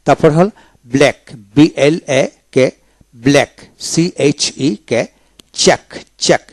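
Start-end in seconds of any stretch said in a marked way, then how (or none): 5.6-6.4 চেক ending in a single k; silent-letter pronunciation. Shown as a demonstration. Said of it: "সি উচ্চারণ হবে না".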